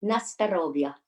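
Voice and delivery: lightly attempted Russian accent. Shown as a demonstration. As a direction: have a modest go at sounding Russian. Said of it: "very Russian with a Russian accent".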